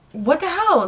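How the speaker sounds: acted-out astonished question; retold incredulity. Retold disbelief at seeing the watch.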